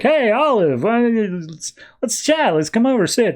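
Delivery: high-pitched eager friend voice; eager kid friend. Retold or imitated. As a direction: imitate an excited kid inviting a friend over. Maps eagerly greets Olive.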